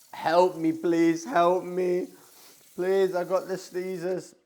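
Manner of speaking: hammed-up plea for help; mock pleading.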